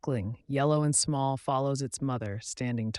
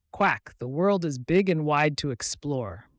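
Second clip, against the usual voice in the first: louder, eager little duckling; excited duckling; 3 semitones higher, 6 dB louder than usual. Acted. Duckling eager to explore, excited. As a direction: burst out with excitement. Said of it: "the duckling exclaimed excitedly".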